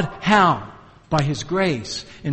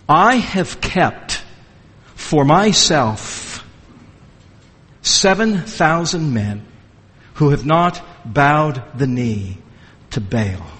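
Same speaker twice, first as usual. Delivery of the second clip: very slow, measured divine words, sinking lower at the end; still small voice; 4 semitones lower, slower than usual. Acted. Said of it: "that still, small voice".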